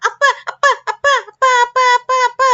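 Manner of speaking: excited calling. Acted. Child rushing in calling father.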